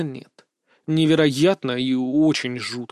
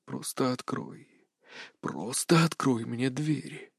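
much softer, slow coaxing; hushed luring whisper; 3 semitones lower, 10 dB quieter, slower than usual. A narrator's reading. Captive girl coaxing him to open the door, hushed. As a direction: draw him in softly and slowly.

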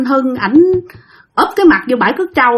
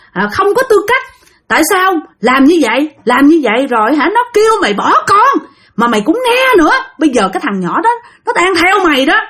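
higher, raised accusing rant; possessed scolding; 5 semitones higher than usual. Retold or imitated. Possessed Hưng berating Tiên, an angry higher scolding. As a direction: jab a finger and scold her hard. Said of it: "cứ chỉ chị Tiên mà cứ chửi".

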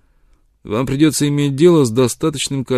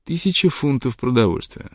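cool and calm; 2 semitones higher than usual. Acted. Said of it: "хладнокровно ответил".

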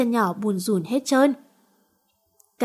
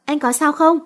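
higher, anxious question, a touch of tremble; trembling voice; 5 semitones higher, 3 dB louder than usual. Acted. She asks wounded Thiện, mildly trembling worry. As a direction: shaken and frightened for him. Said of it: "Nhỏ run giọng".

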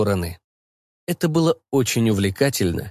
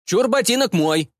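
high eager claim; eager shout claiming boot; 10 semitones higher than usual. A narrator's reading. Stranger calls dibs on boot, high and eager. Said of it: "выкрикнул незнакомый голос".

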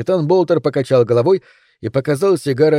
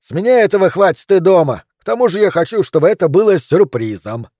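higher, animated ironic protest; 6 semitones higher, 5 dB louder than usual. A narrator's reading. Captain keeps the successor a surprise, ironic and animated. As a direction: protest with teasing energy, voice lifted. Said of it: "с иронией сказал капитан Болтер".

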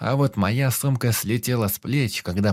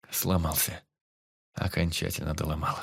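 softer, lower words in shock; stunned near-whisper; 4 semitones lower, 6 dB quieter than usual. Acted. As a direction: barely voice it, numb. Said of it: "прошептал я в шоке".

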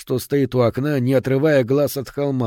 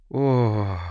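acted languid moan. A narrator's reading. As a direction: let out a long, gentle moan. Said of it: "простонала Гей Кларк".

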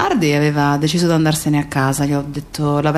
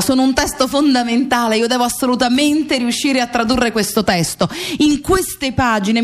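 recalling a friend's words; 6 semitones higher than usual. Retold or imitated. Remembering what Wael told him about the book, higher and earnest. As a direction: echo a dead friend's earnest plea, a little higher. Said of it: "mi diceva".

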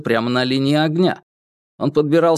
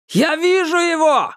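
shouting. Acted. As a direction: call it out as you spot him. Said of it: "закричал второй охранник слева".

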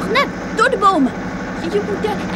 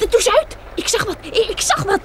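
excited. Acted. Spots a light in the dark.

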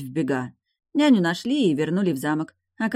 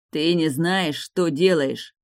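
ordinary delivery, nothing marked

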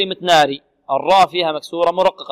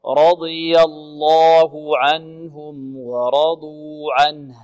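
slow, drawn-out melodic recitation; Quran recitation; much slower than usual. Shown as a demonstration. Teacher models the verse slowly for the student to repeat.

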